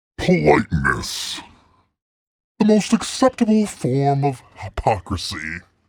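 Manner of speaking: effect-laden demonic voice. Co-host asked for demon voice for a quick email; read it in demon voice. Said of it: "Can I get Demon Voice".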